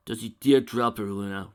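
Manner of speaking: roared. A narrator's reading. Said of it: "roared Spike".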